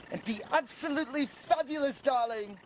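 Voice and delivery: high, swooping camp gush on fabulous; camp flamboyant voice. Pretend. Man startled by his own voice, camp gush. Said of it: "I don't talk like that".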